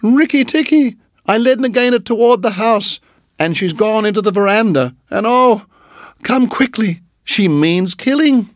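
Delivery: high frantic screaming bird. Acted. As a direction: shriek it out in panic. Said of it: "Darzy's wife screaming".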